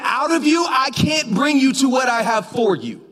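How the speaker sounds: high, emphatic preacher voice for God; forceful divine rebuke. Acted. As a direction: press it home with urgent weight.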